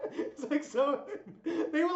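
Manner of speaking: slow, high, laughing through it. Real, not acted. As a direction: laugh as you say it. Laughs while telling.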